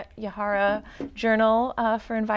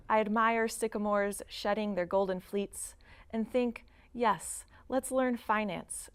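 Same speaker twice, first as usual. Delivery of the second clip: measured poetry recital in separated phrases; poem reading. Acted. Poet reading own autumn poem to an audience, measured recital. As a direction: read it as verse, pausing between images.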